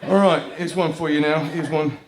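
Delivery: slipping lightly into British; a touch of a British accent. Real, not acted. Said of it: "I got British all of a sudden".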